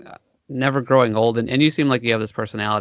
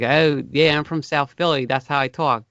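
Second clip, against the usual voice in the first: light South Philly drawl, words slurred lazily; hint of a lazy South Philly drawl; 3 semitones higher than usual. Host imitating a South Philly local, lazy Philly drawl. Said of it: "this drawl, like, I'm talking really lazy".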